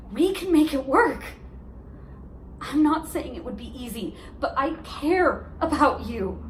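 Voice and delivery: heartfelt, insistent persuasion; impassioned appeal to an ex; earnest plea. Acted. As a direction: pause between phrases and urge them to fight for it. Monologue, urging ex to stay.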